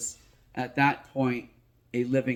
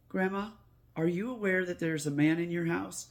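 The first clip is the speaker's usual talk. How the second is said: put-on matter-of-fact child; 5 semitones higher than usual. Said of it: "in a very matter-of-fact voice, very calm".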